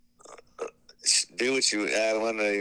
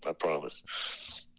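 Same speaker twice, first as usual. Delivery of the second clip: whispering; 6 semitones lower, much slower than usual. Real, not acted. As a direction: whisper it slowly. Whispered promise.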